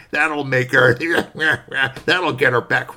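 sly squirrel plotting with giggles; mischievous squirrel voice breaking into laughs; scheming squirrel. Acted. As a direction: hatch the plan like a giggling little schemer.

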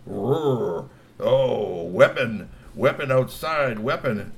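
rising clamor of trolls; excited troll crowd. A narrator's reading. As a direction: call out the weapon warning. Trolls shouting in room.

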